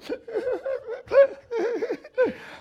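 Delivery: high, broken imitation of sobbing; mock crying. Woman gripping her husband at the altar, mock crying. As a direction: fake a high, jerky crying fit. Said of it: "just a crying".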